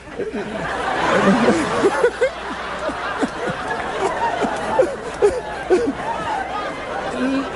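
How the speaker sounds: big rolling laugh at his own story; real belly laugh; long hearty laugh. Real, not acted.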